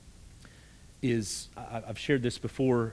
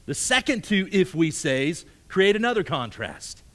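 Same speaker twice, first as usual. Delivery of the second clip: preaching at full force; 8 semitones higher, 9 dB louder than usual. Acted. Preacher pressing the "if we say" statements, fervent and loud. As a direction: drive it home from the pulpit.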